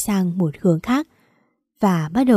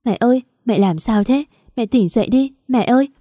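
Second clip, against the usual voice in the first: pleading, rising higher toward the end; on the verge of tears; 3 semitones higher than usual. Acted. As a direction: call her mother, close to crying. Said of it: "giọng run rẩy sắp khóc".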